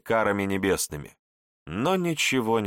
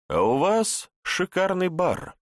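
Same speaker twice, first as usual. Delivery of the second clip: slow, high sarcastic drawl; mocking; 9 semitones higher, slower than usual. A narrator's reading. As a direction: toy with her, sneering. Narrator mocks captor, bottles. (насмешливо, медленно)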